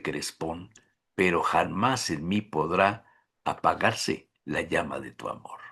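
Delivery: low verse reading, fading very soft; poem recitation. Acted. Host closes with Bécquer's love poem, solemn recitation. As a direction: recite solemnly in phrases, let the end sink away.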